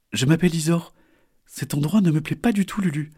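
put-on high, bright young turtle; a small turtle, disgusted; little turtle voice. Isor speaks.

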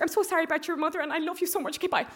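imitating a principal's clipped goodbye; principal style. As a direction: warm but bossy principal hanging up. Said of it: "just true principal style".

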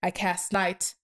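measured spoken-word delivery; poem recitation. Acted. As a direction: recite it like a performance poet.

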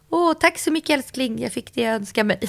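hammed-up sweet thanks hiding disappointment; fake delight. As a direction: gush with pretend gratitude to the boyfriend. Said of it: "Så här, typ".

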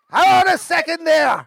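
high, bright Westmeath country greeting; Westmeath accent. Retold or imitated. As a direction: greet like a Westmeath farmer far from home. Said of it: "country accent, Westmeath".

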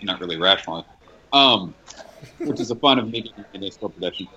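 talking with a mouth full; chewing while answering, mouth full. Real, not acted. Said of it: "Sorry, I'm eating fried rice".

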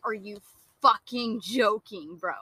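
slow, drawn-out disbelief; indignant retort, stretched for emphasis; retold incredulous anger. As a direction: drag out each word, incredulous and fed up. Retold angry comeback to Dylan.

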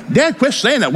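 high-pitched imitation of an exasperated daughter; protesting daughter. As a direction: cut in as the upset daughter, high. Daughter begs father to stop.

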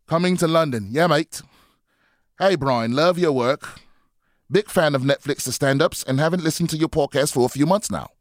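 bad British accent. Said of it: "my shitty Monday accent".

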